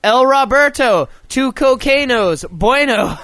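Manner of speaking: playing Roberto, the bartender, in broken fake Spanish; mock Spanish accent. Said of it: "I speak El Espanol".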